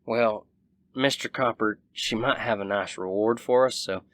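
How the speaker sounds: a hint of Southern twang at everyday volume. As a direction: slip into a mild Southern accent. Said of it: "he just became Southern".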